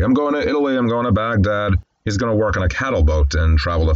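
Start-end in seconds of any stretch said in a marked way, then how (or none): 0.0-1.7 higher-pitched eager itinerary; mildly excited retold boast; regaling. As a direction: lightly act out a young man showing off his travel plans. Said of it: "as he regales the guy behind the counter".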